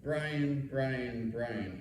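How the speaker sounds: a weary, exasperated sigh of a name. Retold or imitated. Dean to young teacher, mildly exasperated. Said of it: "signaling exasperation".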